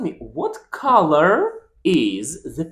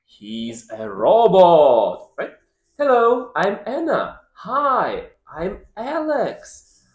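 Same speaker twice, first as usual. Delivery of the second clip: lively sing-song story voice; reading to a toddler; 3 semitones higher than usual. Acted. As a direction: read it playfully for a small child. Reads a picture story aloud.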